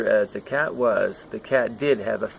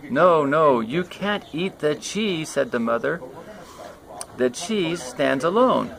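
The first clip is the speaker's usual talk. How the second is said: scolding mother; 4 semitones higher than usual. Acted.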